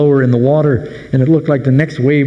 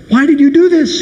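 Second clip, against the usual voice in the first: higher, mildly fearful accusing question; afraid demand; 12 semitones higher than usual. Retold or imitated. Terrified sailors confront Jonah, a touch of fearful demand. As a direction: ask it like a frightened sailor. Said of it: "exceedingly afraid and said".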